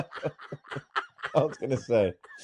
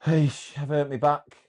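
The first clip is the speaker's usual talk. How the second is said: put-on broad Yorkshire accent; lightly done broad Yorkshire; slower than usual. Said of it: "very broad Yorkshire accent".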